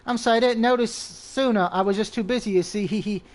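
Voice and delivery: lilting sing-song witch; sweet teasing sing-song. Acted. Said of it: "a sing-song voice cuts through the air".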